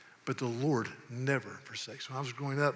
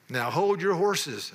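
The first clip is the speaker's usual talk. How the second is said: slow, louder folksy command; emphatic Southern saying; 5 dB louder, slower than usual. Acted. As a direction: stretch it out and project it. Reciting Southern sayings as a test.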